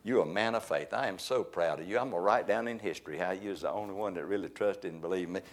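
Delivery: lightly voiced Jesus gushing over his buddy; mock proud Jesus. Preacher mocks soft praise for Peter as too sweet, a hint of doting. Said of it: "That ain't what he said".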